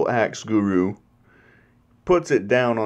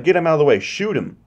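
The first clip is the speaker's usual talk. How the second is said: commanding villain; 6 semitones higher, faster than usual. Retold or imitated. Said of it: "And she's like".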